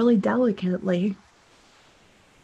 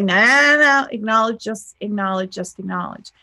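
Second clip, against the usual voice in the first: insistent then softening. Retold or imitated. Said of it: "And I was like".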